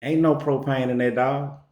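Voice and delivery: a hint of a deadpan friend, quiet; calm buddy. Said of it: "He say".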